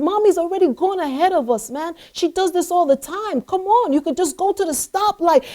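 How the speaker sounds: lightly voiced father urging his child along; coaxing dad. Father coaxing his tired daughter onward, lightly acted urging. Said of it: "He said".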